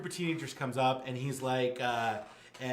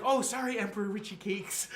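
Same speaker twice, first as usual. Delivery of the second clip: flustered apology; 6 semitones higher than usual. Acted. Jessica's flustered apology to emperor.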